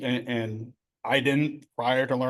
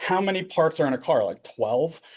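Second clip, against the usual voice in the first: dry, mock, dripping-sarcastic throwaway line; 4 semitones higher than usual. Recalling an old exchange, retelling a sarcastic question. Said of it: "I was being sarcastic".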